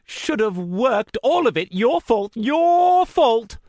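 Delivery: high, loud, crazed accusation; snarling madman. A narrator's reading. Madman accusing the narrator: high furious snarl. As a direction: spit each word like a lunatic accusing. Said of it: "he snarled".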